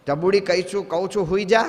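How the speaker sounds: a touch of motherly scolding. Retold or imitated. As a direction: order a child back to sleep, building in volume. Woken mother orders child to sleep.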